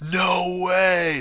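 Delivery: drawn-out, ringing read-out of a chat message; big epic voice. Acted. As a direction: read it like an epic announcer, stretched out. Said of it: "I have a deep voice".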